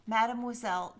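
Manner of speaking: Mademoiselle said the French way, mad-mwa-zel; careful French Mademoiselle, stress on the end; French pronunciation. Shown as a demonstration. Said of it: "just say it, Jordan".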